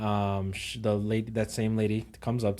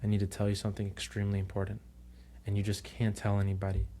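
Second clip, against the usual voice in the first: hushed secret; 5 dB quieter, faster than usual. Retold or imitated. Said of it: "she's like".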